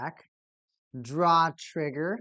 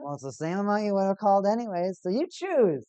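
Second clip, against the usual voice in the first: villain voice; 4 semitones higher, 4 dB louder than usual. Acted. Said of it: "Don't I sound like a good villain?".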